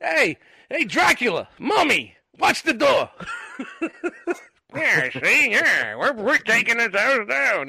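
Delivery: hammed-up 1930s mobster voice, high; old-time gangster. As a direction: play a cartoon gangster barking orders. Playing old-time gangster burglars.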